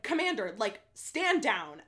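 princess commanding. Retold or imitated. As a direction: command him like a royal. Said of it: "in princess mode again".

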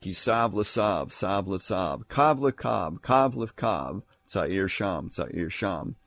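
rhythmic Hebrew jingle, falling away at the end; babble-like recitation. Shown as a demonstration. Preacher showing the gibberish of a baby, babble-like recitation. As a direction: lightly chant it like meaningless syllables. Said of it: "it sounds like gibberish of a baby".

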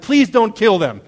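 pleading outcry. Retold or imitated. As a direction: imitate Moses crying out to God. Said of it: "he's crying out to God".

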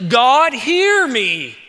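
desperate plea. Retold or imitated. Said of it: "you can sense the desperation".

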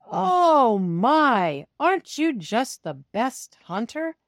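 high delighted praise; admiring praise. Acted. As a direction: gush over the cat like proud owners. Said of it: "they say".

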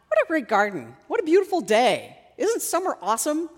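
mock-delight at how lovely it all is; light, bubbly admiration, lifting in pitch; upbeat appreciation. Cheerful thought she didn't have.

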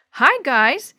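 loud, high greeting call; yelling. A narrator's reading. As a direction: call out to friends down the street. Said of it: "Sammy yelled".

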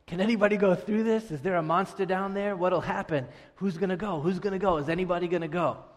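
a hint of children egging each other on with questions; wondering kids. Voices wondering kids at sewer.

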